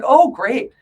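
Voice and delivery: a sour, sarcastic oh great; sarcastic groan. Retold or imitated. Retelling her reaction to hearing voices, sarcastic. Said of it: "I'm like".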